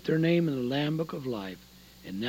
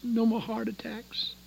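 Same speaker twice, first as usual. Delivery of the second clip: whisper; 4 semitones higher, 7 dB quieter than usual. Acted. Preacher whispering to the congregation about heaven. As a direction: drop to a whisper on the list.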